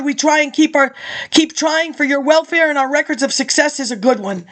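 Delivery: reading out a speech, steady and measured; formal speech read. Acted. Reading an old lecture to listeners, formal speech. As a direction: deliver it like a campaign address.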